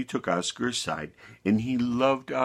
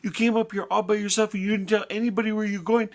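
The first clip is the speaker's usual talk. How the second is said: raised, higher telling-off voice; shepherd's earnest reprimand, pitched up; scolding shepherd; 11 semitones higher, 3 dB louder than usual. Acted. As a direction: scold a naughty little lamb. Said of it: "and he said".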